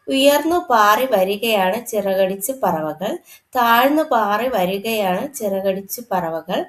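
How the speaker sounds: put-on slow, measured children's verse; poem recitation. Teacher recites a bird poem to pupils, lilting recitation. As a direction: recite in even, lilting lines.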